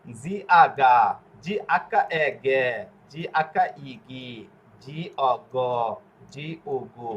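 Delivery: letters apart, ending in hard গা, গে, গি, গ, গু; hard G drill. Shown as a demonstration. Teacher drilling hard G, measured syllable recitation from গা to গু. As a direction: recite the spellings evenly, drawing out গে and গু with a hard g. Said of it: "জি অক্ষরের উচ্চারণ".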